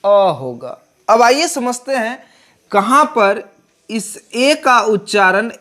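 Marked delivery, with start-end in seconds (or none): 0.0-0.4 अ said as a short neutral uh; vowel अ. Shown as a demonstration. Teacher showing article pronunciation, अ as short uh. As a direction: give अ a short uh sound. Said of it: "इसलिए इसका उच्चारण".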